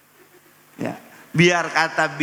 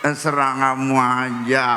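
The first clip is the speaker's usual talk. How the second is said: coy wife; 4 semitones lower than usual. Retold or imitated.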